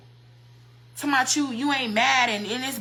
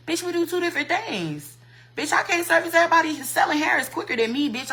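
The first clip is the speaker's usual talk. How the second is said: higher, fast indignant snap back; heated retort; 6 semitones higher than usual. Real, not acted. Vlogger snapping back at the woman who talked trash, high and fast. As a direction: fire back at the hater, higher and faster.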